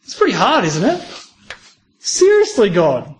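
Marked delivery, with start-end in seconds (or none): 2.0-3.2 mock disbelief, pitch jumping up; Noah's disbelief. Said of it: "Noah might have been saying".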